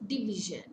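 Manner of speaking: Division with VI stressed, then falling; stress on middle syllable. Shown as a demonstration. Teacher showing a three-syllable word, middle syllable stressed. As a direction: lean on the VI of Division. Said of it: "Stress falls on the middle syllable".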